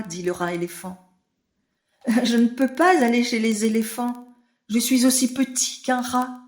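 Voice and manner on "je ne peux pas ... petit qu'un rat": crie. A narrator's reading. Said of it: "crie le bébé éléphant".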